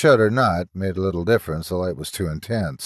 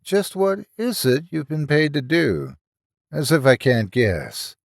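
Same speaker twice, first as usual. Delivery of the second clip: sarcastic; 5 semitones higher than usual. Acted. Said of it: "asked Mark sarcastically".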